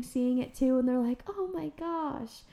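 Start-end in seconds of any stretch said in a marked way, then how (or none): 1.3-2.4 hushed awe. Retold or imitated. Families seeing dolphins.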